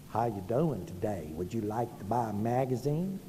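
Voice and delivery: low-pitched mock sales call in a Southern accent; lightly played telemarketer with a Southern accent. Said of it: "can still hear my southern accent".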